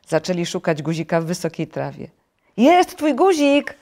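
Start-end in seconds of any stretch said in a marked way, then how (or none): 2.6-3.8 loud, high, drawn-out cry of discovery; excited shout. A narrator's reading. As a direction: call out a find, stretching the words. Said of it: "krzyknął żabek".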